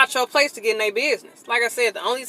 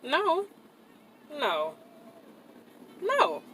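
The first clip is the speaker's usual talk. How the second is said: disbelief; 5 semitones higher, 6 dB quieter, much slower than usual. Real, not acted. Reacting to his reply.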